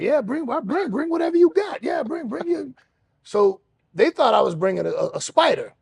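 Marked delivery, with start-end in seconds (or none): 0.0-2.7 higher, eager mock dare; mocking the dudes. Inmates daring him, higher, cocky mock. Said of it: "they were like".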